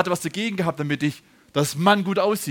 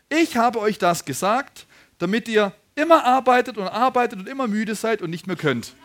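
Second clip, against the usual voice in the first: mock scripture reading; 3 semitones higher, 5 dB louder than usual. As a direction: proclaim the misquote as solemn scripture. Mock misreading of Bible verse.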